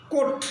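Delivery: কোট with the o narrowed; narrowed vowel. Shown as a demonstration. Teacher showing coat the dress, narrowed vowel in কোট. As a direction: squeeze the vowel of কোট a little. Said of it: "narrow হয়".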